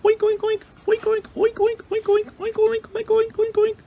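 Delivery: very high, rapid pig oinks; squealing pig. A narrator's reading. Terrified pig runs into the forest, squealing. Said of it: "he squealed off into the forest".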